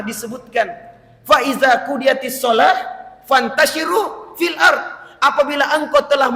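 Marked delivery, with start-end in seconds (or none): 1.2-5.1 Quranic recitation. Acted.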